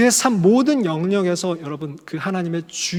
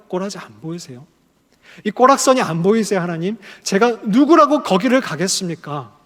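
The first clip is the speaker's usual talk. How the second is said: pleading protest; 4 dB louder than usual. Acted. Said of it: "하나님께 항변합니다".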